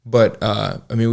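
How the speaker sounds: ordinary talk, nothing marked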